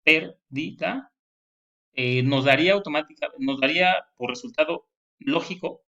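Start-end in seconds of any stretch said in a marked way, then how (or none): 0.0-1.1 very slow, pérdida drawn out; scanning the verse. Shown as a demonstration. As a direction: stretch each syllable to count them. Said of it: "Entonces, a-, te".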